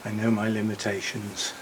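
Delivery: breathless and panting after work; winded, catching breath between words. Real, not acted. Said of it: "I'm well out of breath".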